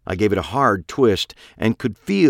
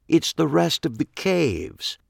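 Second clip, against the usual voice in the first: higher, mocking echo of It's the rest of the caves; Pete, mocking echo; 9 semitones higher than usual. A narrator's reading. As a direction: repeat her words with menace. Pete echoing.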